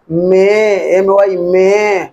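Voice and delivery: letters spaced far apart; teacher slowly spelling for the class. Shown as a demonstration. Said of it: "teacher spelling slowly".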